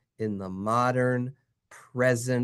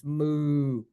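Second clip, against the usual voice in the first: cow moo. Pretend. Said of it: "if you are a cow".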